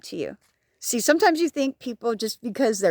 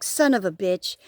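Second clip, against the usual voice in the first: self-scolding inner voice; 2 semitones lower than usual. Retold or imitated. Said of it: "because I'm like".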